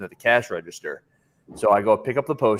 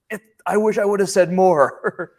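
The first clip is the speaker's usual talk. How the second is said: imitated regret; 10 semitones higher, 5 dB louder than usual. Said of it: "I was like".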